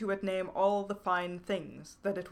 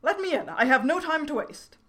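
high, loud shout of a tiny creature; small creature shouting at the door; little voice shouting; 8 semitones higher, 8 dB louder than usual. A narrator's reading. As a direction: yell to be let in, high and loud. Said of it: "a little voice shouting".

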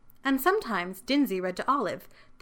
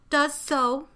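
higher, stubborn little retort; childish defiance; 6 semitones higher than usual. A narrator's reading. Child contradicting the librarian, defiant.

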